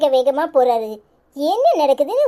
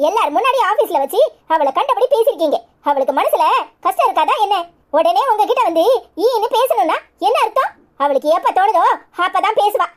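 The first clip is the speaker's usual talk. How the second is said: angry scolding; 3 semitones higher than usual. Acted. Wife scolds husband in quarrel.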